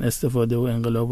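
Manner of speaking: "استفاده و انقلاب" as estefade o enghelab; Tehrani pronunciation. Shown as a demonstration. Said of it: "لهجهٔ تهرانی و اصفهانی". («استفاده و انقلاب» با لهجهٔ تهرانی)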